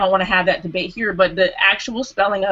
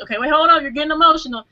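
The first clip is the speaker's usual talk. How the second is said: higher-pitched mock caution; imitated objection; 7 semitones higher, faster than usual. Retelling the host telling her she's getting emotional, higher imitated objection. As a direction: imitate someone calling a halt, pitched up. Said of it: "you said emotion".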